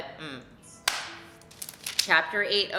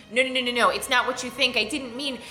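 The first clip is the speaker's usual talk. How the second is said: mock pleading; 6 semitones higher, 3 dB louder than usual. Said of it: "he begs her and he says".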